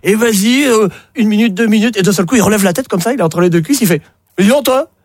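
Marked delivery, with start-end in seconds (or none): 4.4-4.9 higher, laughing through it; acted punchline voices. The rugby player questions the girl, higher and laughing. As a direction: deliver the punchline half-laughing.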